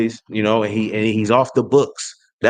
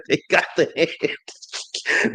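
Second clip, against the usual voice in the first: whisper; 5 semitones higher, much slower than usual. Acted. Gloating whispered repeat.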